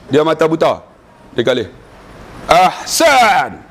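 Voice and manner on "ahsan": drawn-out emphatic praise in Arabic; teacher's approval. Retold or imitated. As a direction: pronounce the verdict with relish, stretching the last vowel. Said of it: "Ahsan dia buat macam ni". (pujian guru, tegas dan meleret)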